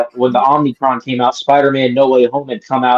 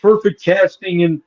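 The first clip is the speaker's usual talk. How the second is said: lightly voiced reviewer, a bit higher; mocking impression; 4 semitones higher than usual. Mocking a reviewer who praises the casting, in a lightly put-on voice. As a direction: sneer his fake praise back in a put-on voice. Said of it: "he's like".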